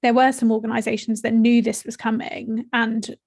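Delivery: breathless, short of air; talking while out of breath. Real, not acted. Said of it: "it's because I am very out of breath".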